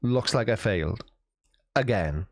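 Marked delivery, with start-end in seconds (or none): 1.8-2.2 breathy whispered self-mockery; a rueful whispered afterthought; whispered aside. Real, not acted. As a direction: whisper it to yourself, deflated. Self-deprecating aside after failed joke.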